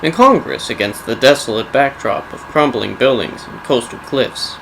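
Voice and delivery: measured storyteller intoning dark history; solemn game-lore prologue read; dramatic lore narration. A narrator's reading. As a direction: narrate a grim legend with deliberate pauses. Reads a scripted lore introduction.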